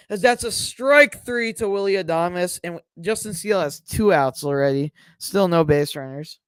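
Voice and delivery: steady sportscaster call; play-by-play. Acted. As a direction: announce it like a broadcaster. Calls the game live.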